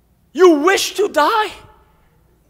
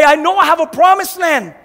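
louder defiant declaration; declaring victory; 4 dB louder than usual. Retold or imitated. Believer declares he will fight on, bold and louder. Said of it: "and you say".

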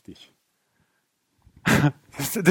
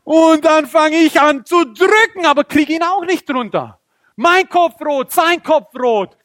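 high, loud, drawn-out telling; straining excitement; 8 semitones higher, 4 dB louder than usual. Acted. Preacher reliving the struggle against the giant, high straining excitement. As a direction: push each phrase out with effort.

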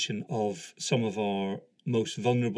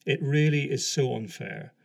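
emotional; 4 semitones higher, 5 dB louder than usual. Real, not acted. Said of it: "I'm getting a bit emotional talking about this".

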